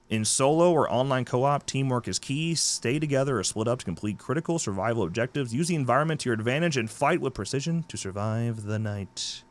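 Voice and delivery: lightly dramatic game promo read; blurb read. Acted. Host reading a horror game's blurb to listeners, promo read. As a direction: read it out like trailer copy.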